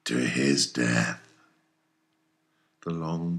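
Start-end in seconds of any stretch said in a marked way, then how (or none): 0.1-1.2 put-on a fierce old sea captain rallying his crew; commanding, hammy captain with bursts of loud toasts; Captain Ahab voiced. Ahab to his mates and harpooneers, commanding and fierce. Ahab's oath against Moby Dick.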